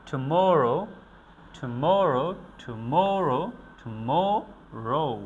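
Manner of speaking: "tomorrow" with loud, rounded "MO", light "to"; stress on middle syllable. Shown as a demonstration. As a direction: punch MO in "tomorrow". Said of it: "এভাবে আমরা এগুলার উচ্চারণ করে থাকি". ("tomorrow"-এর "মো"-তে জোর)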